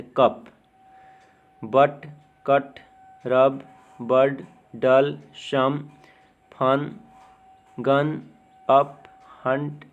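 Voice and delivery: word-list demo, अ sound as in कप, each word set apart; U and O as short A. Shown as a demonstration. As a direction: say कप, बट, मदर with a short अ vowel. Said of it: "यू और ओ का उच्चारण अ की तरह". (कप, बट में यू और ओ को अ की तरह बोलें)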